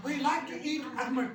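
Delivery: slow, careful almond sentence; slow model sentence. Shown as a demonstration. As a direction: read it slowly for the class. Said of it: "आमंड, ठीक है?". (धीमा नमूना वाक्य)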